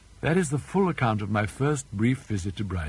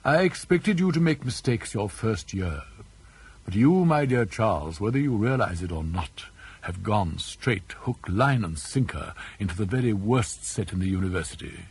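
like an uncle. Acted. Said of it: "talked to me like an uncle".

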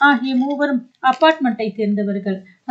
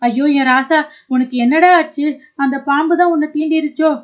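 louder, desperate father crying out; anguished wail; 3 semitones higher, 4 dB louder than usual. Acted. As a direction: cry out in shock for your son. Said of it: "என்று கதறி துடித்து".

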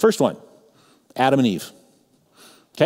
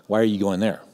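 disapproving question. Retold or imitated. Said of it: "that's how he sounded".

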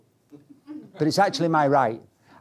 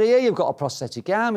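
higher-pitched Yorkshire instructor; broad Yorkshire accent; 6 semitones higher than usual. Retold or imitated. Instructor asks pupil about his arm, imitated broad Yorkshire accent. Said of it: "in this broad Yorkshire accent".

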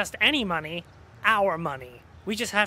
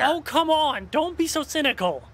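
protesting; 6 semitones higher than usual. Acted. Protesting friend's cynicism.

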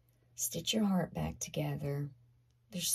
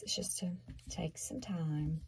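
soft whisper; 7 dB quieter than usual. Real, not acted. Soft reassuring close.

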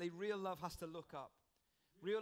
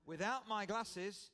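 slow, louder teasing punchline; with a grin; 4 dB louder than usual. Retold or imitated. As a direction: deliver the comeback with a sly smile. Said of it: "he replied with a grin".

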